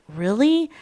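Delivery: lightly exasperated wife; fed-up disbelief. Acted. Wife finding soapy vegetables, fed-up disbelief. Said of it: "And they're fed up".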